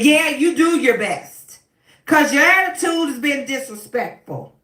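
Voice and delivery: a judge putting the lawyer in her place; cutting retort. Retold or imitated.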